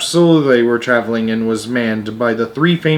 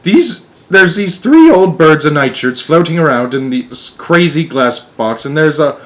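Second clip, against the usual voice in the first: urgent; 4 semitones higher, 4 dB louder than usual. Acted. Astronaut reports strange people.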